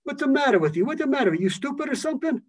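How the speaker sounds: rough big-city friend scolding a pal; Philadelphia friend. Retold or imitated. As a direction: berate a good friend, Philly style. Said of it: "They'll talk to you in Philadelphia like".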